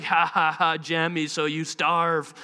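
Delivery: low, slow villain gloat; mock villain. Dad pretending to scheme against son, mock villain voice. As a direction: fake evil laugh, then a drawn-out threat.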